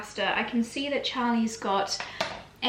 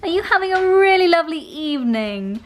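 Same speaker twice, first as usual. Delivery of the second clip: put-on higher, louder sing-song baby talk; pet talk; 7 semitones higher, 7 dB louder than usual. Owner asking the dogs about their evening, in high baby talk. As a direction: coo at the dogs like babies.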